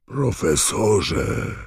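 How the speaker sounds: slow, high, drawn-out call; startled. Acted. Hagrid startled at finding Harry and Krum, surprised call. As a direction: gasp it out in shock, loud and long.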